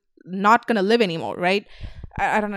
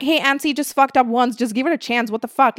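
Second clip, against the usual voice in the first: defensive fan; 4 semitones higher than usual. Retold or imitated. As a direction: stick up for her like a loyal fan. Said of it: "They're like".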